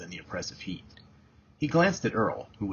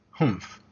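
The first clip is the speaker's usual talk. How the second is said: a mildly voiced scornful humph; a light dismissive snort of a humph; sneering humph. A narrator's reading. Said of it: "Earl sneered".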